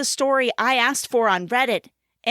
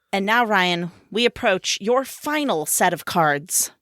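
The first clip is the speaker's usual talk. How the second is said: game show announcer; 2 semitones lower than usual. Pretend. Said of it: "I'm practicing my game show announcer voice".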